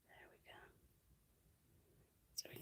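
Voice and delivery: hushed whisper. Real, not acted. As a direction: whisper as if spooky.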